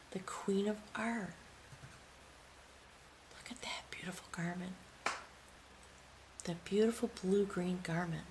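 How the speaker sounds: hushed, reverent whisper; whispering over the beautiful card; awed whisper. Real, not acted. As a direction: breathe it out in wonder.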